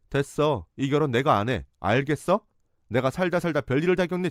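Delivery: a lightly played furious exit; fed-up outburst. Storming out of the meeting.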